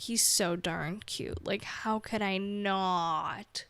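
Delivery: slow, doting gush over a kitten; smitten gushing. Retold or imitated. Owner gushing over her cat, slow and doting. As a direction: melt over how cute he is, slowly. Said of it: "I'm like".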